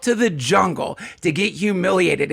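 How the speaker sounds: jab insults at the sobbing men; masseuse berating. Acted. Masseurs mocking weeping men in the jungle, half-hammed scorn. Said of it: "they're like, just like what you said".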